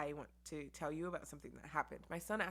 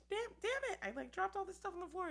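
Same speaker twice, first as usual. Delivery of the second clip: high, louder exasperated; frustrated cursing; 3 dB louder than usual. Retold or imitated. Mother venting over things dropped on the floor, frustrated. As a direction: vent at the mess. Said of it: "really mad".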